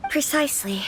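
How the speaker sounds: a hushed aside of agreement. Acted. Quiet agreeing whisper.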